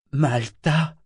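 weak, muffled rising question. A narrator's reading. Half-drowned man asking for Malta, muffled and weak. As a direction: call her name faintly, half-choked. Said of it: "fit-il d'une voix étouffée".

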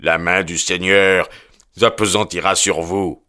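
mild character yell; understated howl of menace. A narrator's reading. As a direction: call down divine punishment. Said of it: "hurla le jeune Drebber".

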